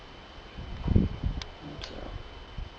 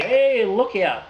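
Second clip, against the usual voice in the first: startled warning; 6 semitones higher, 4 dB louder, much slower than usual. Real, not acted. Ginger beer foaming over the glass.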